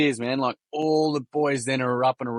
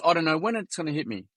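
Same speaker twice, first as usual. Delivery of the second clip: slightly put-on Kiwi boy voice, higher; Kiwi accent; 5 semitones higher than usual. Kiwi boy talks of his grief, higher Kiwi accent. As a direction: imitate a Kiwi lad opening up. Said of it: "Excuse my Kiwi accent".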